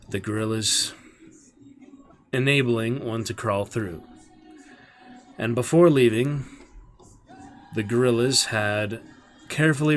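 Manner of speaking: story narration. Acted. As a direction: read the chapter with dramatic weight. Reads the novel aloud to stream.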